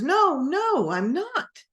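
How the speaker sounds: high, loud, frantic no; panicked denial. Acted. Peter, cornered by a servant girl, panicked denial. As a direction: push him off in a rush of panic. Peter denies, pressed again.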